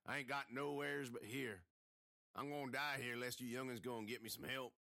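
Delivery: a lightly voiced hurt old man; injured man pleading. A narrator's reading. The hurt man begging the kids, a lightly voiced plea. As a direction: plead through the pain.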